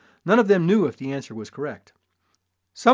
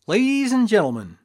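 loud, higher showman's call; hollering barker; 4 semitones higher, 8 dB louder than usual. A narrator's reading. Father hollers to passersby to gather round, loud. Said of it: "I hollered".

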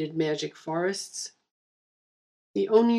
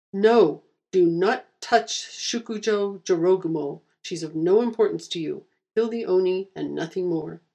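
angry; 3 dB louder than usual. Acted. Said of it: "She'd made it mad".

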